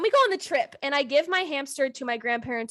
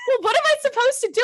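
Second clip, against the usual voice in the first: laughing protest; 10 semitones higher, 4 dB louder, faster than usual. Real, not acted.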